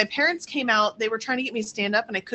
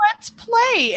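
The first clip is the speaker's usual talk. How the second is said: playful horse voice; 13 semitones higher, 5 dB louder than usual. Retold or imitated.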